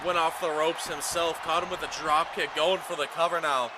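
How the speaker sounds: urgent ringside commentary building to the count; excited pinfall call. Real, not acted. Commentator calling the cover after a drop kick, excited.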